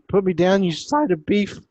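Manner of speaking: high, loud mock-indignant shout; indignant protest. Zulia to the man who snatched her up, indignant protest. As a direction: demand to be put down, loud and high. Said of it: "And she's like".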